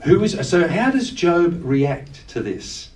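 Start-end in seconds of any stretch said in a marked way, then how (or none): 0.0-0.4 high and louder, like a thundering God; God confronting Job with a booming question; booming divine question. Retold or imitated. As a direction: ask it as God challenging Job. God's challenge quoted to Job.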